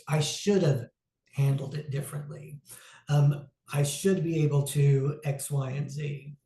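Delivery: should leaned on each time; stress on should. Retold or imitated. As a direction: press the word should, self-critical. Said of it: "I am emphasizing the word should".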